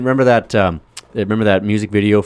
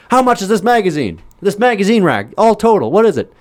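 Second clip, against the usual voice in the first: high, loud demanding question; mock menace; 13 semitones higher, 5 dB louder than usual. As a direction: grill the clerk with the bat. Character threatening shopkeeper.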